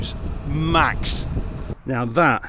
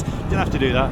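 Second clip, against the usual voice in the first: ordinary talk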